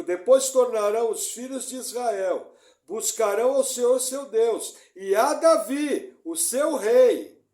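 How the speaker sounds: loud, slow emphatic scripture reading; emphatic reread. Shown as a demonstration. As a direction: reread it slowly and forcefully. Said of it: "Ó, vou reler". (releitura lenta e enfática)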